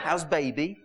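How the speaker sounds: lightly voiced patronising nurse with a laugh; mock health visitor, laughing. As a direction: tease the health visitor's baby talk. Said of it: "Why do they talk like that?".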